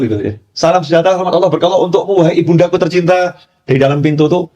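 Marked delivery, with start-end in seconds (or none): 0.5-3.4 higher-pitched greeting, as if called through a door; calling out to mother. Retold or imitated. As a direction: imitate a devoted son hailing his mother. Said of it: "panggil ibunya".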